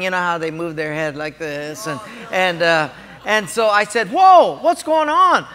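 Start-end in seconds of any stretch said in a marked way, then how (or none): 4.1-5.5 startled, high "whoa"; retold astonishment, drawn out and loud; taken aback, pitched up; surprised. Retold shock at empty gate.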